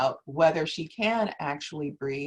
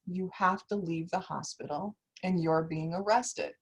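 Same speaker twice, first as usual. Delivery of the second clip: a retold officer, calm and a bit softer; 3 dB quieter than usual. Officer telling a patient she is arrested, calmly. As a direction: state the arrest evenly, without heat. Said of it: "he says in a very calm voice".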